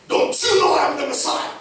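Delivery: indignant mock shout, pitched high; Jesus. Pastor imagining Jesus insisting on his title, indignant shout. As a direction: blurt it out, demanding to be recognised. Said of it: "It's like Jesus telling them".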